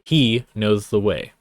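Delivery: "he" hit hardest, the rest lighter; stress on he. Shown as a demonstration. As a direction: lean hard on "he". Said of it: "emphasis on that pronoun".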